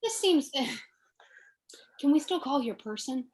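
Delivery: hushed whisper with a sigh. Real, not acted. Aside to fellow player.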